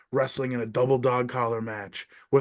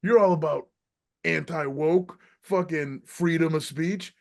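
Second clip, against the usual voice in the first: retold tirade; 5 semitones higher than usual. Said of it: "And then I was like".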